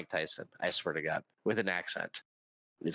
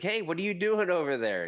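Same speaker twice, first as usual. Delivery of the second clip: higher-pitched acted hail to strangers; calling over; 8 semitones higher, 3 dB louder than usual. Train conductor hailing a couple on an overlook, calling over. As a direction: call over with a curious question. Acted exchange in retold game story.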